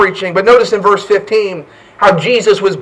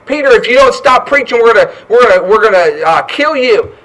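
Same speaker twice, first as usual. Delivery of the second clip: threatening; 3 semitones higher, 5 dB louder than usual. Acted. Persecutors threaten Peter.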